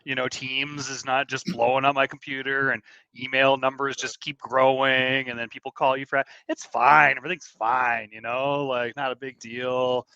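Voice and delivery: overly cheerful, clearly not meaning it; sarcastic. Acted. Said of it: "you sound so sincere".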